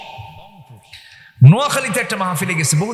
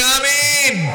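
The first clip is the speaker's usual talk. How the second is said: loud amen; 10 semitones higher, much slower than usual. Shown as a demonstration. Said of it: "জোরে বলি".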